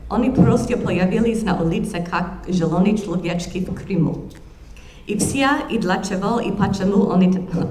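reading aloud in American-accented Russian; terrible Russian accent. Shown as a demonstration. Historian reads her colleague's story to the audience, terrible Russian accent. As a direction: read the Russian story out emphatically, in a foreign accent. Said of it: "read to you in my terrible Russian accent".

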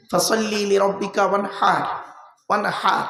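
ওয়ানহার with the h from inside the throat; correct throaty h. Shown as a demonstration. Preacher teaching correct prayer recitation, throaty h. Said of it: "এ গলার ভেতর থেকে হেট উচ্চারণ করবেন".

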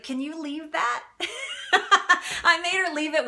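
high laughter running through the words; laughing. Real, not acted. Telling viewers how she kept the jar, laughing. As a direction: giggle while confessing the favor. Laughing at her own greed.

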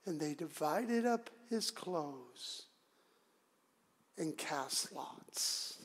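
slow, low, soft narration; solemn scripture reading. Acted. Preacher reading how soldiers split the clothes, low and slow. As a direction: read it out slowly, falling away.

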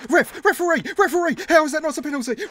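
high, loud shout at the ref; outraged appeal. Real, not acted. Fan screaming at the referee for a penalty, outraged shout.

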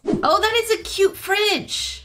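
squeaky high, slow coo; baby-talk praise of the cute fridge; high cutesy voice. Pretend. Admiring the fridge, high slow cutesy coo.

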